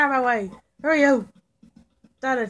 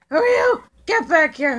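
high shouted demand; 5 semitones higher, 6 dB louder than usual. Pretend. Chasing a stranger.

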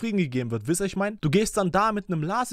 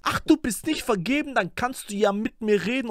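higher, winding rap-line imitation; female rapper impression; 5 semitones higher than usual. Reactor shows chat the rapper's winding flow, imitating. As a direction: mimic the rapper snaking through the line. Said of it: "wie sie da so sich rumschlängelt".

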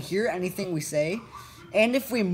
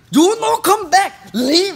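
high, loud imitation in an Asian accent; mock Asian accent; 11 semitones higher, 10 dB louder, slower than usual. Friend imitates the angry guy on request, mock Asian accent. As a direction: shout it in a put-on Asian accent. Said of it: "Phantom Zero do his accent".

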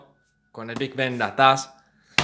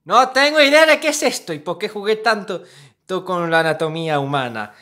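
surprised; 6 semitones higher, 6 dB louder than usual. Real, not acted. Flipping sketchbook, baffled exclaim.

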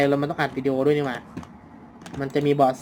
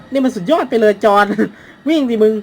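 excited cheering; 6 semitones higher, 8 dB louder than usual. Real, not acted. Cheering during the chase.

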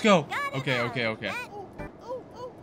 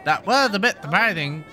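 lightly mimicked announcer, pitched higher; mimicking the announcer; 6 semitones higher than usual. Gamer parroting the game commentator, light mimicking. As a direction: echo the commentator with a touch of mockery.

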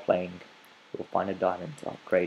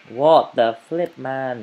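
higher and louder, indignant; frustrated outburst; 3 semitones higher, 7 dB louder, slower than usual. Real, not acted. Player annoyed by chicken, loud indignant outburst. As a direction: exclaim in annoyed disbelief.

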